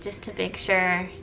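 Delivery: talking through a face mask; muffled behind a mask. Real, not acted. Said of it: "why I'm wearing a mask right now".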